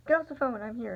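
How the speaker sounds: serious voice. Retold or imitated. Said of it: "really serious voice".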